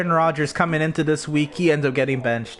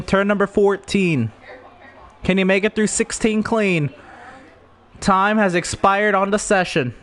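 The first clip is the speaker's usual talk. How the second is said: race commentary; 3 semitones higher than usual. Acted.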